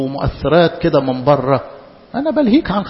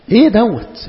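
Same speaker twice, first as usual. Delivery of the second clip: a puzzled, slightly raised question; incredulous question; 3 semitones higher, slower than usual. Real, not acted. Preacher questioning his flock, puzzled but still restrained. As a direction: ask it as if you can't believe it.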